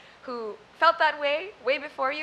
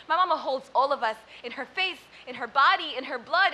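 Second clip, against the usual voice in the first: loud, rhythmic poem delivery; spoken word performance; 4 dB louder than usual. Acted. Poet performing her poem Mama on stage, rhythmic. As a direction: hit each line like a drumbeat.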